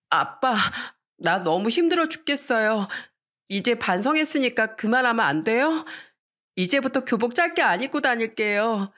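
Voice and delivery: pleading daughter. Acted. Exhausted daughter pleading with father.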